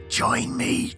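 breathless ghostly whisper. A narrator's reading. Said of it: "her voice only becomes more horrifying as she repeats".

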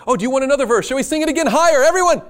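a nervous leader covering with false cheer; fake cheerful.

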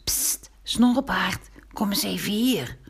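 whispered call. A narrator's reading. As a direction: whisper to call the cat closer. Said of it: "riep Pinkeltje zachtjes".

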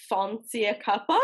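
put-on British accent with a questioning rise; imitated British accent. Host takes a turn for the London guest to grade, attempted British accent. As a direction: try out a British accent, unsure. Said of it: "or any British accent".

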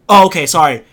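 loud, oblivious mock apology and question; same loud volume. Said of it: "Same fucking volume".

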